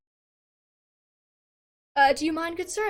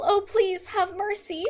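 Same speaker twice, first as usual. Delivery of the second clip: mock pleading; 5 semitones higher than usual. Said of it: "She was all".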